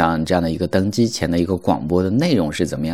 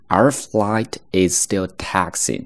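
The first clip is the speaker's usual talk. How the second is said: slow clear reading; slower than usual. Shown as a demonstration. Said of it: "那么这个地方的".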